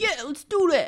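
put-on New Jersey accent. Retelling a story, everyone agrees to follow him: put-on new jersey accent. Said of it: "that was my New Jersey accent".

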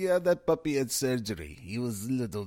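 horrible, clumsy, fake Colombian accent. Retelling what a man said about a puppy's scar, the speaker uses a horrible colombian accent. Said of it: "That's a horrible Colombian accent".

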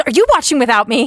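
cross, accusing, mad tone, high. Retelling Lucy running in and asking a question: imitating Lucy being mad. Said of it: "she was so mad".

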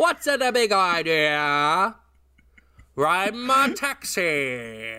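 very slow, put-on Boston accent, male voice. Doing an invented character, a guy from boston: boston guy voice. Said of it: "a little bit of a Boston guy the character I invented".

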